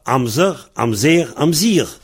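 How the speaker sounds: "Amzer, Amzer, Amzir" with the last vowel changing from eu to è to i; three dialect pronunciations. Shown as a demonstration. Teacher illustrating three dialects, "Amzer, Amzer, Amzir" each with its own last vowel. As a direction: set the three final vowels apart. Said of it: "Trois prononciations".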